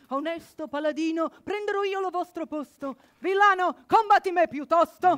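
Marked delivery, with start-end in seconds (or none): 3.2-5.2 loud challenge. Acted. Challenging the villain to duel.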